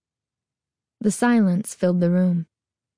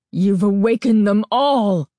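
frightened cry; 4 dB louder than usual. A narrator's reading. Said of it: "he cried".

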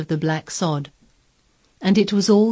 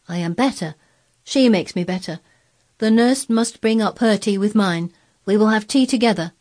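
put-on insistent, louder child giving orders; higher, emphatic boy; imperious boy Colin; 5 semitones higher, 4 dB louder than usual. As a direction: lay down the law as a young master.

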